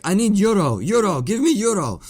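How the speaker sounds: loud, high-pitched begging imitation; mock frantic demand. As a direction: demand it desperately, as the agitated stranger. Retold desperate demand for money.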